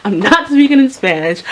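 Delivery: high, loud, indignant retort; angry refusal. Retold or imitated. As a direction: push back loudly, refusing.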